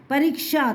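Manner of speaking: परीक्षा with a short k before sha; half-k in परीक्षा. Shown as a demonstration. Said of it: "आधा का आया है".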